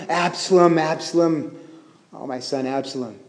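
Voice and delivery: a mild lament, fading as it goes; understated lament. Acted. Preacher voicing King David mourning his killed son, understated lament. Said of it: "especially in lament".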